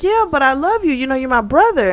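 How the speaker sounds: high, pleading plea to him; pleading sister. Retold or imitated. Sister begs the man she calls brother, pleading high. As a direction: raise the voice, begging him to stay.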